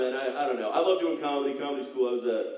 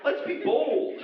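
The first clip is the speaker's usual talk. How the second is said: high, bright mock suggestion to wife; mock family dad; 10 semitones higher than usual. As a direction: pitch a terrible vacation to his wife. Iowa family planning vacation.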